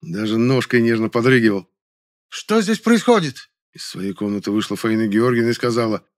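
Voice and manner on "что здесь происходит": very high, slow imperious demand; commanding elder actress. A narrator's reading. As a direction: freeze the room. Elder actress stops brawl. (властный окрик)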